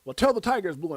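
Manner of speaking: loud, insistent retold donkey; donkey in a joke. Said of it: "And he goes".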